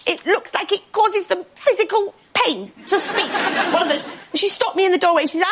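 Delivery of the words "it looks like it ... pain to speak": pained posh speech. Acted. Acts out painful posh speech.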